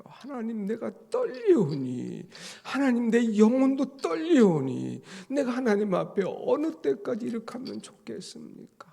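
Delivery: high, loud desperate prayer; trembling plea. Retold or imitated. Preacher voices David trembling before God, high desperate cry. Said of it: "떨면서 하나님 앞에 회개하는".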